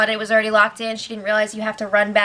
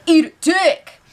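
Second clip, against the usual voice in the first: higher, louder gloating shout; mock celebratory yell; 5 semitones higher, 5 dB louder than usual. Houseguest gloating after winning the competition, mock shout. The speaker celebrating his win.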